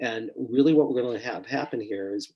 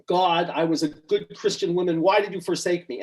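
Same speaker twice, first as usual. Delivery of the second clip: retold screaming; 6 semitones higher than usual. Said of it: "She's screaming all this stuff".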